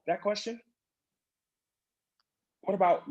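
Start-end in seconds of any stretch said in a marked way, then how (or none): 0.1-0.6 high, incredulous; high incredulous scoff; mock disbelief. Real, not acted. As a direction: scoff at your own question. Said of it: "That's the question that came to my mind".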